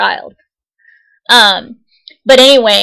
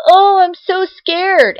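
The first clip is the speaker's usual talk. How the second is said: slow, higher mock-frightened drawl; imitating a woman pretending to be afraid, slowly; mocking fake fear; 7 semitones higher, much slower than usual. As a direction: stretch it out like a taunting fake scare.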